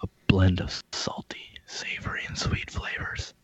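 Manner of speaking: mock-sultry ad read, partly breathed out; commercial voice. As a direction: sell it like a seductive snack commercial. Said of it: "No, it's my commercial voice".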